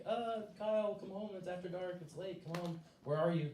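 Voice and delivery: lightly voiced porch mom, softened; a hint of calling a child in from afar; mom calling kids. Mom on the porch at night, lightly imitated calling. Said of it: "proverbial mom on the porch".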